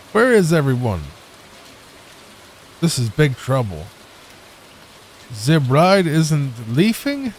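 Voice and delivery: hammy mock German accent; stagey, badly faked German. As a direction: play a cartoon German chef. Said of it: "It's not how you speak German".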